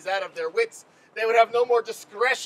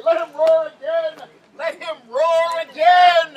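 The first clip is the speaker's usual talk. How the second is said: Duke calling out; 5 semitones higher, 7 dB louder than usual. Retold or imitated. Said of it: "make the Duke say".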